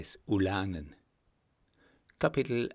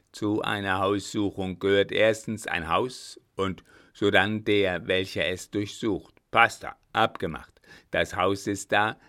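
lightly voiced commander, loud and decisive; a hint of a brusque old soldier; brisk, overruling marshal; 6 dB louder than usual. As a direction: sweep every objection aside as the marshal. Blücher overrules the objection.

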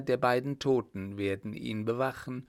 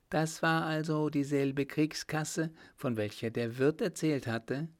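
a hint of a higher woman's voice; lightly pitched-up questioning heroine; lightly voiced Margot, curious; 5 semitones higher than usual. Woman asking her companion about the war chest, lightly voiced, curious.

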